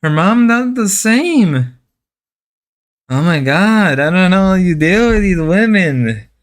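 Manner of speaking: mock Mexican accent. Commenting on Mister Devin's women in a mock Mexican accent. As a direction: lean into a playful Mexican accent. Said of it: "I gotta stop doing the Mexican voice".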